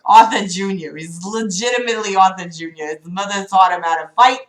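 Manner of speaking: put-on playful New York accent, dropped r's. Reader repeating Arthur Junior joke, New York accent. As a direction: lean into New York vowels. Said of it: "I said that real fucking New York".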